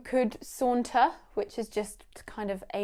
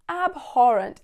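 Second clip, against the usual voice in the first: disgusted; 3 semitones higher, 5 dB louder than usual. Shown as a demonstration. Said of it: "show absolute disgust".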